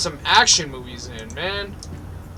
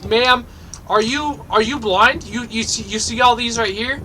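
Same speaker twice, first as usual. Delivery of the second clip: incredulous scolding; 4 semitones higher than usual. Pretend. Berating a game customer.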